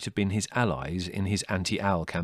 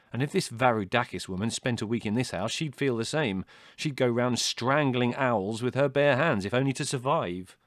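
higher, emphatic comic rant; exasperated son; 5 semitones higher, 5 dB louder than usual. A narrator's reading. Larry rants about owls.

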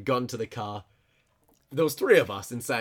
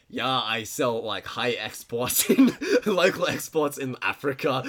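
reluctant Romanian impression breaking into laughter; mock Romanian accent; slower than usual. Car seller explaining his business, in a laughingly imitated Romanian accent. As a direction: put on a Romanian accent, laughing partway through. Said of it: "I don't wanna do the accent".

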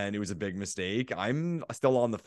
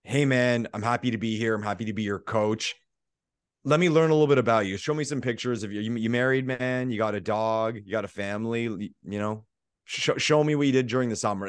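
friendly coach voice; faster than usual. Retold or imitated. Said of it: "how he delivered it".

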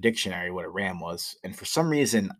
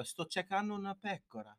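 higher, softer, said with a big proud smile; 10 semitones higher, 11 dB quieter than usual. Retold or imitated. Young tourist asking the old jeweler for a pecora, big proud smile. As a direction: beam it out, proud of your Italian. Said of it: "I go with this big ass smile".

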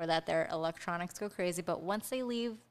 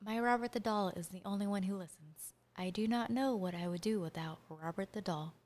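dramatic voice; 3 dB quieter than usual. Pretend. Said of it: "get back into character".

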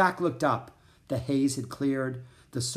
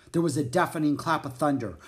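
usual speaking voice

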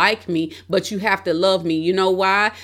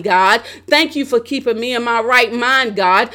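raised pitch on each "thank you", falling to "God"; fervent thanksgiving prayer. Acted. Preacher modelling a prayer of thanks to God, fervent. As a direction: pray it out in insistent, repeated bursts of thanks.

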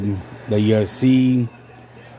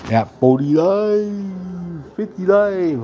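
excited; 9 semitones higher, much slower than usual. Real, not acted. Hyping up his two TVs.

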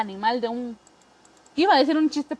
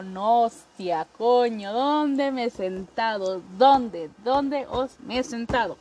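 ligero acento de España, lento; acento español; slower than usual. Retold or imitated. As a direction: imita suave a un español. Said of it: "ya ni sé si soy de España". (leve acento español)

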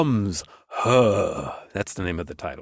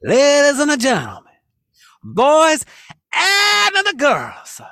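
hammed-up Italian-American host voice, higher and louder; Italian-American accent; 6 semitones higher, 4 dB louder, much slower than usual. Host introducing guests in a hammed Italian-American accent. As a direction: sell the guests like a New York Italian announcer. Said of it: "I always go back to that accent".

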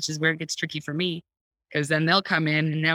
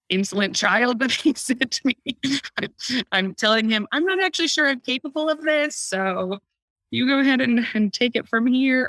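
hammed-up complaint to Heavenly Father; mock yelling at God; 7 semitones higher than usual. Mother venting to Heavenly Father about her child, mock yell. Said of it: "I'm yelling at Heavenly Father".

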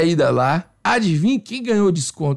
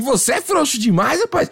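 slightly higher, taunting retold insult; mock scolding; 6 semitones higher than usual. Waxer berating her squeamish client, mock scolding. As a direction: imitate the waxer telling him off. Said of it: "E ela me xingando".

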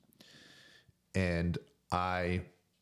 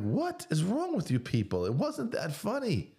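exasperated retort; 13 semitones higher than usual. Retold or imitated. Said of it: "I'm like".

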